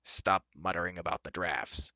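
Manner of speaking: mildly brusque command; a touch of brusque impatience; brusque order. A narrator's reading. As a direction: order them curtly, lightly voiced. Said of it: "Dolly ordered brusquely".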